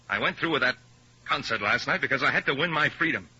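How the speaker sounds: ordinary talk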